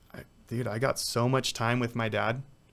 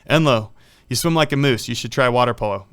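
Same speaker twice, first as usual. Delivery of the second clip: voicing the coach; 6 dB louder than usual. Coach voiced in story.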